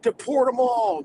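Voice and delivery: high-pitched imitation of angry commenters; mock outcry. Streamer mimicking anti-Muslim commenters, mock outcry. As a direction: cry it out like an online mob.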